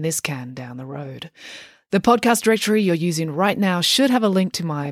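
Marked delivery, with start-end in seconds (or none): 0.0-1.3 playful whispered aside; conspiratorial whisper to listeners. Acted. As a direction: drop to a secret whisper.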